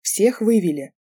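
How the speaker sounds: a shout across the kitchen; called out. A narrator's reading. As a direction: call out to everyone from far away. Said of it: "крикнул с другого конца кухни".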